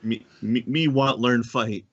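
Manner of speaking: slow, hammed-up broken-language accent; mock broken Elvish. Player parodying a friend's bad Elvish, slow mock broken accent. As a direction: tease with a clumsy Elvish learner's accent. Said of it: "pulling off at the English of, of elves".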